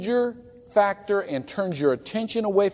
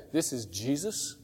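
quiet voice of Jesus; 8 dB quieter than usual. Retold or imitated. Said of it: "the voice came back and said".

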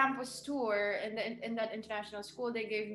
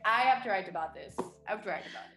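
urgent excitement; 6 dB louder, much faster than usual. Retold or imitated. Guest retells urge to write.

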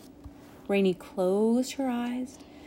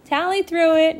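high, raised, merry voice; amused; 9 semitones higher, 7 dB louder than usual. A narrator's reading. Rainy tells Nimbus who threw slush, amused. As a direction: say it with light amusement. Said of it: "Rainy said with a laugh".

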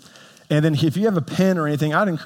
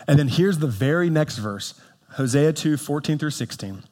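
normal talking voice

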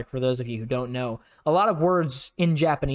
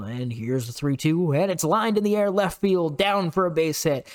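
mock formal announcer. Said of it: "American announcers ... broadcasting school".

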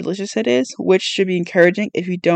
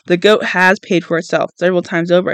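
superior tone. Acted. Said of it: "I say in a superior tone".

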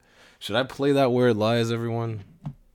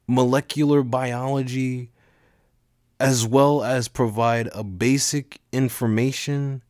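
put-on shy teen announcer; 4 semitones higher than usual. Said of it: "a shy teenage boy giving an announcement".

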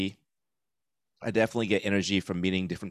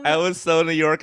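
put-on thick New York accent, punched so; 8 semitones higher, 7 dB louder than usual. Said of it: "my thick Long Island accent".

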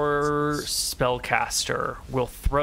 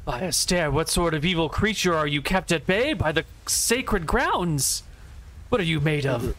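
lightly voiced holy spellcaster, demanding answers; slightly raised, theatrical questioning; a hint of an affronted sorceress; baffled enemy spellcaster; 4 semitones higher than usual. Game master voices the enemy spellcaster.

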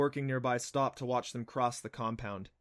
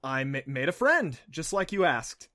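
put-on nervous boy; 7 semitones higher, 8 dB louder than usual. Boy nervously greets his mom.

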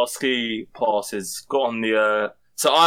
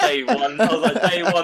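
laughing; 5 semitones higher than usual. Real, not acted. Laughing retelling holiday.

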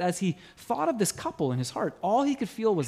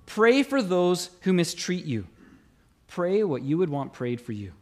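scripture reading. Acted.

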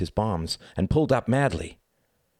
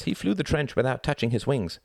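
put-on higher-pitched boy vouching for a friend; boy's voice; 7 semitones higher than usual. A narrator's reading. Ex-German boy backs Tom to Reg, boyish voice. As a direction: pipe up in a boyish voice.

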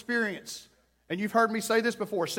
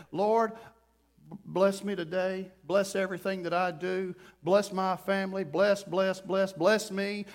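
perfunctory, rote prayer trailing into repetition; haphazard prayer. Acted. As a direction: toss off an obligatory prayer without feeling. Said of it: "haphazardly throw".

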